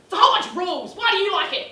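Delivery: high, loud disbelieving demand; incredulous loud challenge. Retold or imitated. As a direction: fire it back in disbelief. Aggressive addict challenges her.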